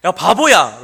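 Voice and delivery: a kid taunting a friend in a hammed-up yell; mock insult. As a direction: jeer at a friend. Insult acted again.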